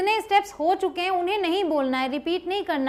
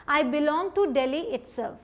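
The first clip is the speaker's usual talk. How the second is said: slow model sentence; much slower than usual. Shown as a demonstration. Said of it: "मतलब मैं दिल्ली से ही हूँ".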